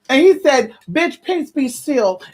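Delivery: preacher shouting the command to the waves; climactic preaching. Acted. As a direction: proclaim it over the storm.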